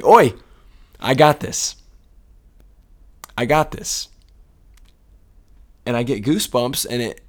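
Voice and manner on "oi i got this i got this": put-on higher, eager kid voice, a loud Oi up front; young daughter Gigi chiming in. Dad retelling his daughter's confident interjection, higher and eager. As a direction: pipe up like a confident young girl. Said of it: "Gigi would pipe in and say".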